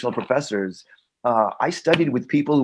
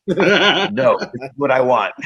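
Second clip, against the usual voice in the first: emphatic retold no; 4 dB louder than usual. Retelling his firm refusal, laughing.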